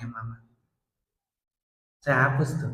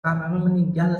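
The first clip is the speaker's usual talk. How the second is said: higher, louder phone-call plea; urgent retold announcement; 6 semitones higher, 7 dB louder than usual. Son phoning his father about mother's death, urgent. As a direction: break the news urgently, voice lifted.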